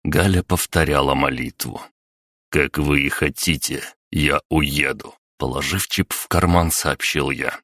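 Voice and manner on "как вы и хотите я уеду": медленно, тише; произнеси с тихой горечью; горькое смирение. Acted. Герой покорно уходит. (герой смиренно уходит из лагеря)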